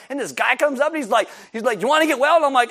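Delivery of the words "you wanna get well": offering question. Acted. Jesus voiced in retelling.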